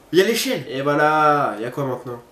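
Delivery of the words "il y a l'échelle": startled gasp. Real, not acted. Sudden discovery.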